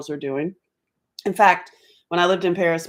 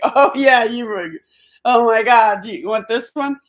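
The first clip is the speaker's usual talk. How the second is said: eager reply; 5 semitones higher, 6 dB louder than usual. Retold or imitated. Acting out her eager reply to friends.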